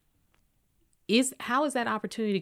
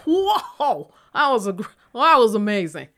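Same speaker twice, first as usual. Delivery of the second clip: gushing praise; 3 semitones higher, 7 dB louder than usual. Retold or imitated. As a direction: rave like he's a genius. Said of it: "And they're like".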